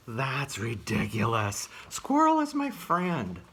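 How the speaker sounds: bear voice. Acted.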